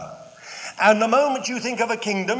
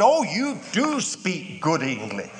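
southern drawl. Retold or imitated. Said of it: "in a very southern, uh, drawl, which I can't copy".

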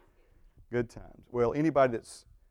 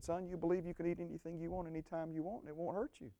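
soft, quiet, fatherly telling; gentle voice of the Lord; 5 semitones higher, 9 dB quieter than usual. Retold or imitated. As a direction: say it softly as God speaking gently. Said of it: "He said".

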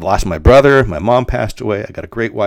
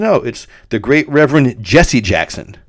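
reverent correction; 4 semitones higher, 5 dB louder than usual. Retold or imitated.

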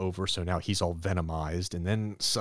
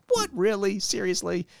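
pitched-up, louder mock disbelief; incredulous; 13 semitones higher, 3 dB louder than usual. Johnny can't believe Sue's answer, high incredulous squawk. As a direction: play the stunned kid brother, voice jumping up.

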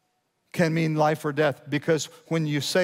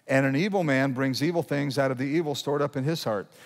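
deliberate reading, leaning on "evil"; emphatic scripture reading. Real, not acted. Pastor reading on to the congregation, with emphasis. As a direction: stress "evil" as you read the verse. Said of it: "read this slowly with emphasis".

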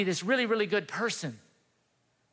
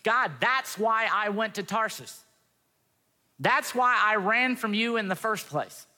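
indignant complaint; 4 semitones higher, slower than usual. Retold or imitated. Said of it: "Jonah turns around and he says".

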